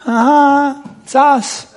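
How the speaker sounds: hammed-up attempt to get noticed; feigned interest. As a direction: play at being really interested. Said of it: "tried to make it sound like they were really interested".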